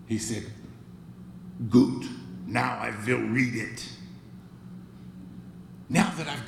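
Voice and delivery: put-on deep gravelly voice with a thick German accent; lightly imitating a German-accented statesman. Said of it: "deep, gravelly voice with a thick German accent".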